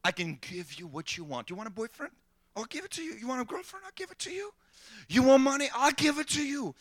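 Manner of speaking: soft, sweet tempting voice; nice-guy devil. Retold or imitated. Devil tempting as a subtle inner voice, soft. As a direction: coax gently like a friendly thought. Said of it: "He comes as the nicest guy".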